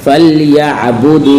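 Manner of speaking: फलयाबुदू with a smooth, unechoed L; no bounce on Laam. Shown as a demonstration. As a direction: glide from L into Y in फलयाबुदू. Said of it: "लाम के बाद दोबारा नहीं आनी चाहिए". (फलयाबुदू में लाम बिना झटके)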